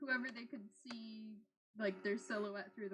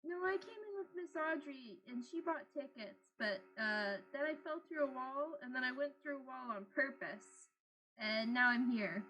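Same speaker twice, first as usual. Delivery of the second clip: put-on childlike creature voice. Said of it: "Aizo's like".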